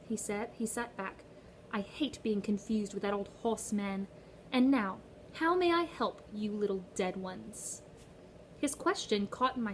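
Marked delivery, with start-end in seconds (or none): 1.7-7.8 sweet, cold British-tinged guard; lightly accented, mocking patience; Charon's British accent.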